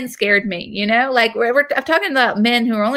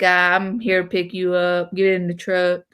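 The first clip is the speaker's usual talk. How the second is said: put-on mumbled Southern accent; thick Southern accent; 2 semitones lower than usual. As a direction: imitate a Southern tow-truck driver. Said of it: "that thick Southern, like, South Carolina accent".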